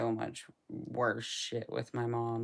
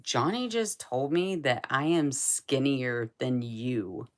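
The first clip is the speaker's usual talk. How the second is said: excited; 8 dB louder than usual. Retold or imitated. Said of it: "She's like".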